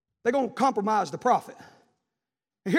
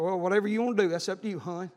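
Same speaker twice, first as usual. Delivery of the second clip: a spouse giving up on the family; mock indifferent spouse; 5 semitones lower, faster than usual. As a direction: let it trail off like you no longer care. Compromising spouse voiced.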